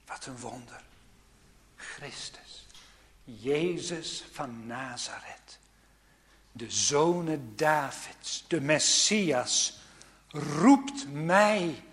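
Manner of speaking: slow, hushed whisper of awe; awed whisper. Acted. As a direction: breathe the names in wonder. Awed whisper of Christ's titles. (langzaam, eerbiedig gefluisterd)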